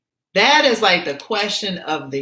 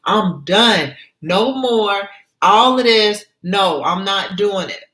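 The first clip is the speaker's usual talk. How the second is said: defiant hell no; 2 semitones higher than usual. Retold or imitated. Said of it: "we like".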